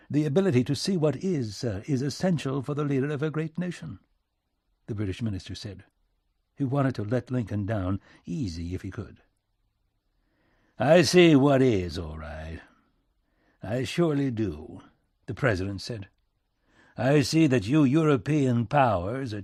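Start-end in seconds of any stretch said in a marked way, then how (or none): 0.1-4.0 higher, smooth diplomatic voice; measured British envoy; British minister, conciliatory. Acted. 10.8-14.8 emphatic, then falling away; pointed retort. Acted. Lincoln sourly throws the phrase back.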